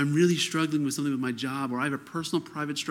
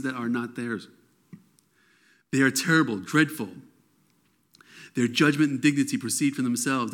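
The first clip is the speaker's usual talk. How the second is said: scripture reading. Acted. Preacher reading God's reply to Habakkuk, bold proclamation. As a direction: declare the verses boldly.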